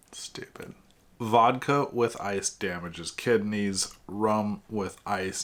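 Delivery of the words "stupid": a whispered put-down to yourself; whispered aside. Real, not acted. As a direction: breathe it under your breath. Muttered self-comment after joke.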